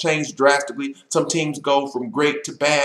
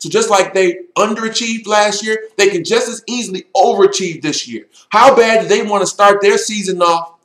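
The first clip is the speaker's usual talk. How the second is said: louder, rousing locker room pep talk; halftime pep speech; 4 dB louder than usual. Acted. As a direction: fire up the team, building intensity. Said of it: "an old-fashioned pep talk".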